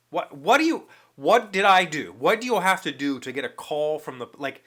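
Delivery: high, loud mock-panicked questioning; retold panic. Customer imagining why the post office would call, mock panic. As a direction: play up the alarm, voice jumping up. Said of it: "I'm going through these nightmare scenarios".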